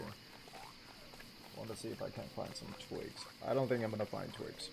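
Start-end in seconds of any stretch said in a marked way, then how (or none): 0.0-3.2 slow soft whisper to self. Real, not acted. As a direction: breathe it out slowly. Whispered repeat of line.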